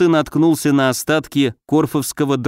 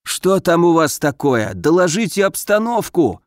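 crackling earpiece; 3 semitones higher than usual. Acted. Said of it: "снова захрипел Гагарин".

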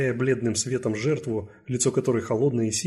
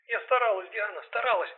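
distressed pleading; 10 semitones higher than usual. Acted.

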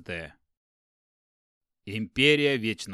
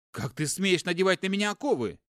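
higher, louder enraged demand; furious; 7 semitones higher, 5 dB louder than usual. Acted. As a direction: bark it in fury at the brother. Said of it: "взъярился он". (яростный крик)

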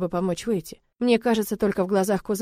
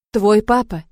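firm; 6 dB louder than usual. Acted. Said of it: "твёрдо отзывается Мал".

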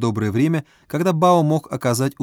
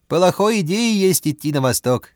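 higher, slow broken Russian; Chinese accent Russian; 6 semitones higher, 3 dB louder than usual. A narrator's reading. Bao's accented speech.

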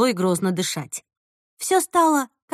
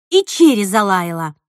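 usual speaking voice

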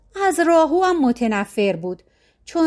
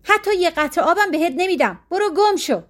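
trembling shout; 6 semitones higher than usual. A narrator's reading.

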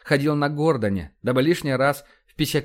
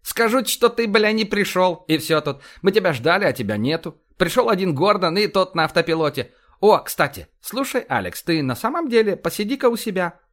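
higher, lively commander voice; blustering, animated officer, pitched up; brash police commander; 5 semitones higher than usual. Acted. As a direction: rattle off orders like a blunt cop boss.

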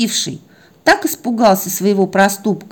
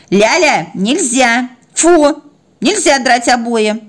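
firm, higher-pitched telling-off; scolding; 5 semitones higher, slower than usual. Acted. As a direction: forbid it as to a naughty pup. Owner scolds the puppy. (строго отчитывает щенка)

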